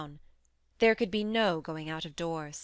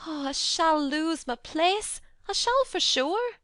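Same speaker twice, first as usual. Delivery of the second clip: dismayed; 10 semitones higher, 5 dB louder than usual. A narrator's reading. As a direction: lament it, near tears. Martha dismayed.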